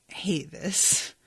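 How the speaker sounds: breathy whisper of real frustration; whispered dismay. Real, not acted. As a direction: whisper it like it hurts. Dismayed reaction to the chapter.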